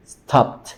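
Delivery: stopped in one syllable, ending "pt"; -ed as plain T. Shown as a demonstration. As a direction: demonstrate "stopped" as "stopt". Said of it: "esta P, pues, no suena".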